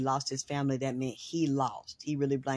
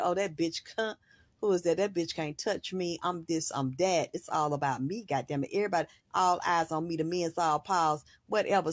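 dismissive diva. Retold or imitated. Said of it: "she turn her head".

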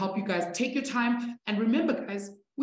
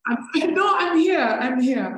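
laughing reassurance; 5 semitones higher, 5 dB louder than usual. Real, not acted. Reassuring a stressed student.

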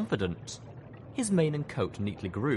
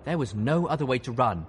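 gruff colonel, raised voice and higher pitch; 4 semitones higher, 5 dB louder than usual. A narrator's reading. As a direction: challenge a hidden enemy gruffly. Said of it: "he said gruffly".

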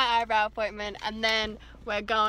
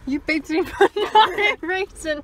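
loud, indignant yell with a laugh; shouting at driver; 7 semitones higher, 8 dB louder than usual. Real, not acted. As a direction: call out the car that beeped. Yelling at a driver who beeped.

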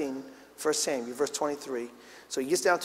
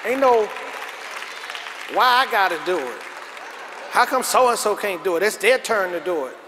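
mock indignant kid, louder; whining protest; 3 semitones higher, 4 dB louder than usual. Preacher mimics a child objecting to chores, whining protest. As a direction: complain like a put-upon child.

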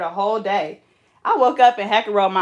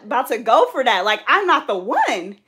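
louder, higher mock indignation; retold indignant attitude; 4 semitones higher, 5 dB louder than usual. Telling fiance off over a dream, full of attitude. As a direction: push back with sass, stretching the last line.

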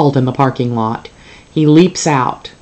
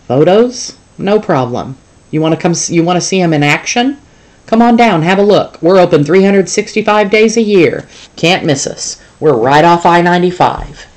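higher, louder pitchman voice; salesy zoo boss; 4 semitones higher, 4 dB louder than usual. Acted. Zoo boss inviting the reporter down, high and loud pitch. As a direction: sell it like a roadside ad. Boss promoting his mall.

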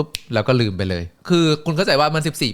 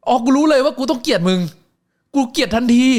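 much higher, louder indignant outburst; outraged reaction; 13 semitones higher, 4 dB louder than usual. Retold or imitated. Fan yelling back at the wrestler, high and outraged. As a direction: take the insult personally and blow up.

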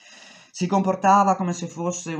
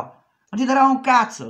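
angry boss; 10 semitones higher, 7 dB louder than usual. Retold or imitated. Boss refuses, shouting.

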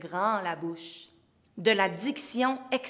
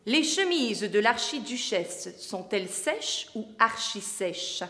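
careful diction; slower than usual. Shown as a demonstration. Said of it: "Comme celle-ci".

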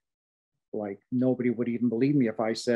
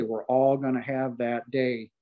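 slower, settling back down, weighing each word; slow solemn repeat. Real, not acted. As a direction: let "We're all gonna have that day" sink in slowly. Repeated for emphasis.

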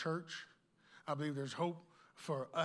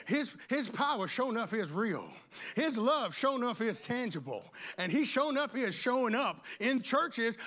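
raised, forceful sermon voice; fired-up preaching; 6 semitones higher, 5 dB louder than usual. Real, not acted. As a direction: preach it out with insistent energy.

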